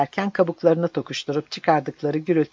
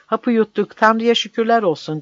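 higher, loud glad cry; joyful shout; 6 semitones higher, 4 dB louder than usual. A narrator's reading. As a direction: cry out the news with joy. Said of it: "diye bağırdı". (sevinçle bağırarak)

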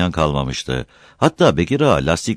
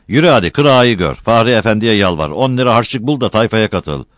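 scolding orders; 5 semitones higher, 5 dB louder than usual. A narrator's reading. Uncle keeps scolding nephew.

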